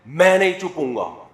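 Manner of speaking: loud, defiant mock comeback; acted yell of refusal; shouted retort. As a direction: shout back as the child refusing. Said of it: "اتنی زور سے کہہ رہے ہوتے ہیں کہ آگے سے جواب".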